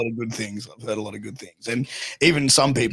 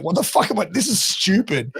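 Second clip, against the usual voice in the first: higher-pitched retold exasperation; exasperated retelling; 7 semitones higher than usual. Sick wrestler balking at promoter's order, exasperated. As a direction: replay baffled protest at a daft order.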